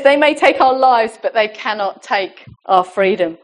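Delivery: a light attempt at a Scottish accent, strong then dropping; mildly rousing film quote with a hint of Scottish; Scottish accent, Braveheart line. Preacher quoting Braveheart to the church, lightly imitated Scottish accent. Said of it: "Who can do a Scottish accent?".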